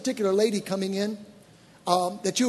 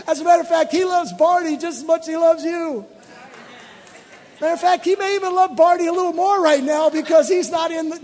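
loud, higher preaching peak; full-force preaching; 8 semitones higher, 6 dB louder than usual. Acted. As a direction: drive it home to the congregation.

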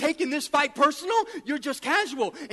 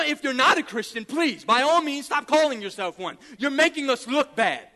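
usual speaking voice

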